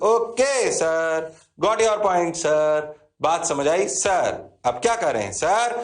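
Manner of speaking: slow, drawn-out mock student reply; lightly voiced students answering the teacher. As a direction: drawl it like bored students answering sir. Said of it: "mimicking students' reply".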